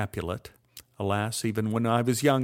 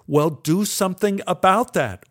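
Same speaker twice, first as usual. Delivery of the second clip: retold order; 6 semitones higher, 5 dB louder than usual. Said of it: "ordered Milton".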